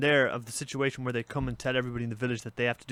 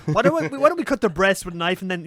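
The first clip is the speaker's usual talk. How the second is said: higher-pitched mock elder in a meeting; raised-pitch brainstorm suggestion, acted; elder pitching ideas; 4 semitones higher, 4 dB louder than usual. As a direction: eagerly pitch it as a committee member.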